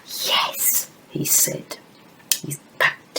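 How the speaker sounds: very soft, whispered confiding; playful hush for young children; hushed relay. Pretend. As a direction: whisper as if passing on a secret. Relays what puppet told her.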